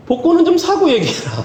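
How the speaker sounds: high-pitched punchline, swooping down at the end; exasperated voice of God. Retold or imitated. God answering the lottery petitioner, comic exasperation. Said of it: "음성이 들리더랍니다".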